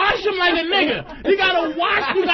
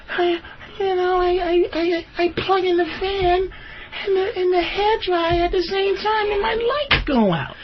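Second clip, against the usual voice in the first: mock girlfriend; 4 semitones higher than usual. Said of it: "she wouldn't even say no shit like this to me".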